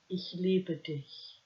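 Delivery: Ich liebe dich spoken slowly in German, each word drawn out. A narrator's reading. Hans confesses his love to Annette, slowly in German. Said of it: "so he said it in German".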